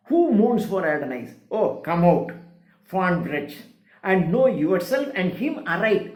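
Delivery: slow, declaimed verse; poetry recitation. Acted. Lecturer rereading the Adonais stanza to students, slow recitation. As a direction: recite with long, weighted words. Reads poem lines aloud.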